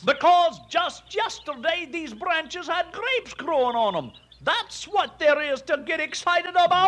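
high-pitched, indignant excitement; worked up. Acted. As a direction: insist on it, all wound up. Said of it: "why get so excited".

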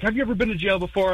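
imitating the cop. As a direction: lay down the law like a cop. Retold cop questioning.

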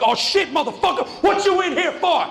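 high, loud mocking jeer; jeering inmates. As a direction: pounce on the new kid like sharks. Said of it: "It's like".

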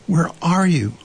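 high-pitched worried call; crying out. A narrator's reading. Christopher Robin seeks missing Pooh, crying out. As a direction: call out for someone lost. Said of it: "cried Christopher Robin".

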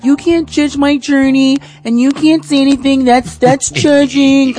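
high, mocking whiny voice; mocking quote. First lady mocking people who say don't judge me, whiny mimicry. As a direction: mimic a defensive churchgoer. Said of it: "I know nowadays".

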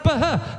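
"Bah" sounded as breathy b plus h; pronounced "Bah". Acted. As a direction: say "Bah" as two literal letters, buh-huh. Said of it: "it's pronounced".

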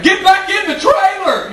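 high, slow mock yell of a trailer park parent; hammed-up redneck holler. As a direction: bellow it like a trailer park mom. Yelling trailer-park quote.

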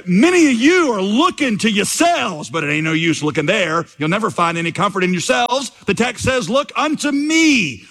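country preacher's mock Essex accent, pitch leaping on key phrases; broad Essex accent. Preacher correcting the self-absorbed congregation, in a broad mock Essex accent. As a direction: preach in a homespun mock Essex accent, climbing high at the end. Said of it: "in a broad Essex accent".

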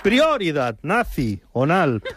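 slow "Prioridad nazi... onal", pausing after "nazi"; split-word pun. Acted. Host mocking a party slogan, "nazi" split off from "onal". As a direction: break "nacional" in two as "nazi", pause, "onal".

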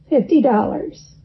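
"Fifty dollars" lightly hammed up, rising, as if for a child; mildly playful "Fifty dollars" like horsing around; comical voice. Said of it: "he said in a comical voice".

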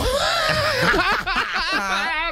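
high, long cackle of laughter; real high-pitched laugh. Real, not acted. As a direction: crack up laughing. Laughing at the list being cut.

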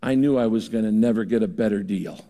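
a hint of thick Austrian accent; Peter Drucker Austrian accent. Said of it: "in that thick Austrian accent".

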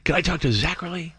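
mock child voice, pushy and hopeful; little kid pleading. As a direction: play a nine-year-old begging to talk to his hero. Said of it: "I'm a little kid".

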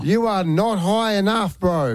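slow, laughing mock taunt; laughing tease. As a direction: laugh as you rib your kid. Dad teasing, laughing.

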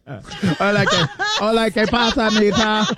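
laughing, put-on Spanish accent; a jokey Spanish accent that drifts toward Japanese; mock Spanish accent. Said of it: "saying it like you're from Osaka".

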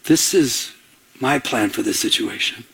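God gently refusing. Acted. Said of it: "And God's like".

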